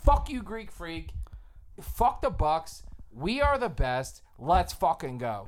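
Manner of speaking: rally the fans, all heat; fired up rant. Real, not acted. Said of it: "I'm a little fired up".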